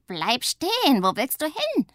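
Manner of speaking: high, loud alarm; alarmed shout. A narrator's reading. Witch on the runaway sledge yells in alarm. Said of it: "schreit Pumpernickel".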